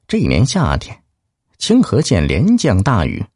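lively folk storyteller narration; fireside storytelling. A narrator's reading. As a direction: tell it like a teahouse storyteller.

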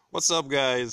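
loud, high put-on greeting to the listeners; weird intro voice. Host greeting listeners in an odd put-on voice. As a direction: open the show in a strange announcer voice. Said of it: "That sounded very weird".

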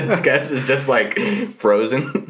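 laughing through the words; giggling as he tells it. Real, not acted. Laughing while telling a friend about the frozen guest.

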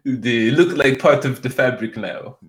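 hesitant mock French accent; lightly hammed French accent; fancy French waiter. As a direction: play a French waiter searching for words. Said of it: "like a fancy French, like, waiter's like".

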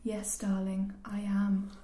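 soft, near-whispered retold answer; quiet whispered acted reply; hushed reply. Acting the woman's resigned reply.

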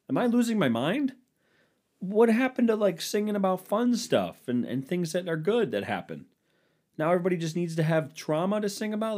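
high-pitched retold exasperation; exasperated rant. Retelling own exasperated rant.

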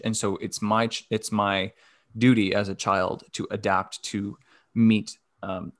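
talking around a sore tongue; words a bit thick from a mouth ulcer. Real, not acted. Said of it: "my tongue hurts so freaking bad".

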